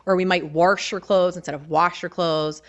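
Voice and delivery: first "wash" said "warsh" with an added R, second plain; Baltimore pronunciation. Shown as a demonstration. Showing the local "warsh" against standard "wash". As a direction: add an R into the first "wash" only. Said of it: "add in extra R's".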